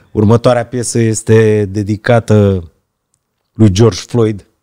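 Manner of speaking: mock DJ announcer voice, low and slow.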